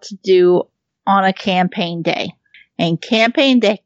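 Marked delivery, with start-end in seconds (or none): 2.8-3.8 hiccuping mid-sentence; talking through hiccups. Real, not acted. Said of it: "I have the hiccups right now".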